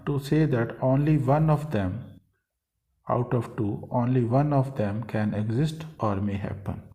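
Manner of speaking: slow, measured textbook reading; teacher reading aloud. Acted. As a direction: read the rule out slowly, word by word. Teacher reads out rule in English.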